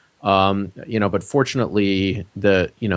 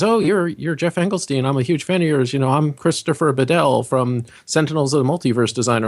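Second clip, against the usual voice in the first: eager gushing fan, pitched up; excited fan; 5 semitones higher than usual. Retold or imitated. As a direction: gush like a starstruck fan. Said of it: "And he says".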